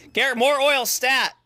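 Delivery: loud, high call for help; urgent order. Pretend. Boss orders Garrett to bring oil, urgent yelling. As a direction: call it out like an emergency.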